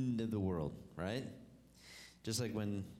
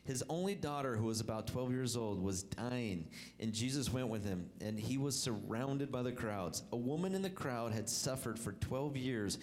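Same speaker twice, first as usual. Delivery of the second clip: scripture reading; 2 semitones lower than usual. Acted. Reads scripture aloud.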